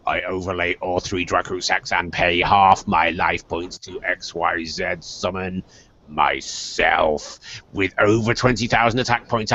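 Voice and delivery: demon ruler gloating. Acted. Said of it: "the demon ruler said".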